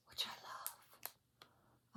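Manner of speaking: slow breathy whisper. Real, not acted. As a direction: breathe it out slowly, adoring. Whispered love of pattern.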